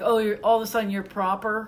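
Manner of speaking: ordinary talk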